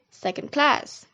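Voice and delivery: "second class" with main stress on "class"; secondary stress on "second", primary on "class"; primary stress on second word. Shown as a demonstration. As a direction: land hardest on "class" in "second class". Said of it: "primary stress on the second word".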